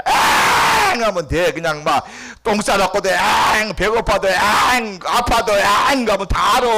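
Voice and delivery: high, loud, drawn-out 앙; mock baby wail. Pastor imitating a crying infant, high loud wail.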